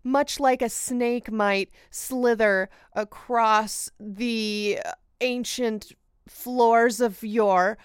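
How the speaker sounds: slow, hammed-up poetic narration; flowery storyteller. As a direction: stretch out every flowery phrase slowly. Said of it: "That was word salad".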